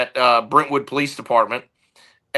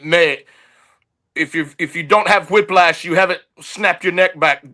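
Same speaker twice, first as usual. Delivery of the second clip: mock Southern accent, pitched higher, half-hearted; a clumsy, hammed-up Southern accent with a raised pitch; bad Southern accent; 3 semitones higher than usual. Retelling a stuntman's advice in a bad Southern accent. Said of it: "that's a terrible Southern accent".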